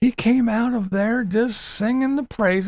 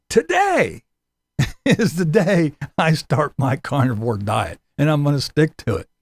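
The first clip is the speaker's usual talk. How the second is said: mocking Tim's vow; 5 semitones lower than usual. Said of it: "our expert has stated".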